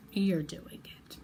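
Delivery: slow, emphatic whisper; drawn-out whispered affirmation. Real, not acted. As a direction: whisper it slowly, with conviction. Repeats the words for intimate emphasis.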